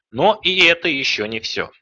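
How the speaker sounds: teleshopping host pitch; infomercial. Real, not acted. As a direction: sell it like a TV shopping ad. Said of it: "Я прям как в телемагазине".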